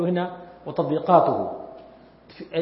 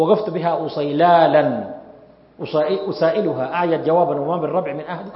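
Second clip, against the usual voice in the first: poem recitation. Shown as a demonstration. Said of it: "هو يقول".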